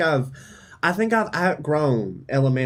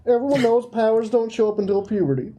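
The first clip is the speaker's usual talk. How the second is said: put-on high-pitched, upset kid voice; high, insistent child's protest; 9 semitones higher, faster than usual. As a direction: argue back like a wounded child. Child character protests, near crying.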